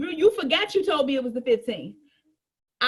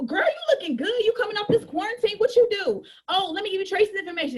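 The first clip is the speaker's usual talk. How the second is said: chatty coworker; 4 semitones higher than usual. Acted. Coworker chat acted out.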